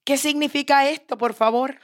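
high-pitched daughter pleading for an explanation; amused daughter asking. Acted. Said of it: "se ríe y le dice".

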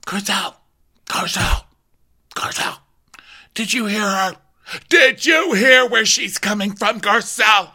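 high mock-dramatic pleading; Rinna. Rinna pressing Garcelle to listen, high mock-dramatic plea. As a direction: build from halting name-calling to loud, high insistence. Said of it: "So Rinna's like".

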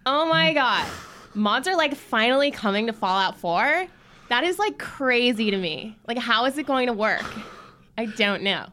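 put-on high, loud Valley Girl accent. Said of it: "if I do the Valley Girl one".

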